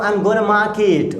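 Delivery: slow, clear gonna; slow demo of gonna; short gonna. Shown as a demonstration. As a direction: teach gonna slowly. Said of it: "going to को gonna बोलेंगे".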